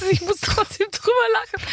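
high, squealing giggles through the words; laughing uncontrollably while speaking; hysterical laugh. Real, not acted. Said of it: "bitte jetzt hör auf zu lachen jetzt".

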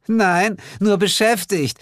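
high, giggly quip; chuckling. A narrator's reading. Asmodina chuckling at her parents' row, high-pitched. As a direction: chuckle through the cheeky answer. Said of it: "Asmodina gluckste".

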